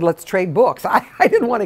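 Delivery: awkward laugh. Real, not acted.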